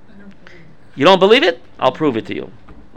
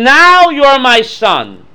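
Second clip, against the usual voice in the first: slow, weighty words from a mother; slow earnest mother; 3 semitones higher, 4 dB louder, much slower than usual. Acted. Rivka tells Yaakov he is now her son, slow and earnest. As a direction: lean into each word like Rivka claiming her son. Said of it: "She's saying".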